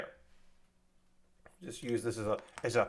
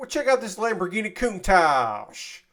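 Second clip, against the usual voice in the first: put-on Appalachian accent; 2 semitones higher than usual. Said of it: "you don't say it like that".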